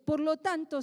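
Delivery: normal talking voice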